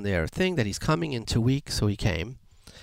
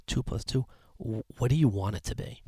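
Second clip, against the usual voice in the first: softer, a mock whisper in the ear; quiet confiding lawyer; 6 dB quieter than usual. Lawyer with arm around the boy, murmuring softly into his ear. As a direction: lean in and murmur the offer. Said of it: "he says in a quiet tone".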